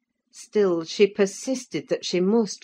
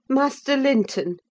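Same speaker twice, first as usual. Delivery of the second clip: Nelly calling sharply, higher and louder; cried out; 9 semitones higher, 4 dB louder than usual. A narrator's reading. Housekeeper crying out to the boy Linton. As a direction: demand his attention. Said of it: "I cried".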